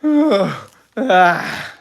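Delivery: loud yawning groan; noisy yawn. A narrator's reading. Father turning over in bed, yawning. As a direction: let out a big waking yawn. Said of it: "turned over and yawned".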